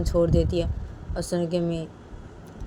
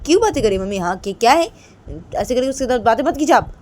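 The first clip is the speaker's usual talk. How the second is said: higher, louder protest to her mother; upset pleading daughter; 4 semitones higher, 7 dB louder than usual. Acted. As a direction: argue back, indignant and pleading. Daughter defends friend to mother.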